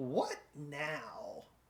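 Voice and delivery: soft, shrill female voice. The narrator voices a woman heard as the door closes behind the players: shrill female voice. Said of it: "you can kind of hear this sort of real shrill voice".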